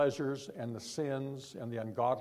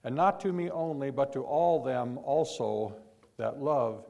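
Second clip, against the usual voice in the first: proclaiming scripture; 7 dB louder than usual. Real, not acted. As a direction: ring the verse out to the congregation. Preacher proclaims the verse onward.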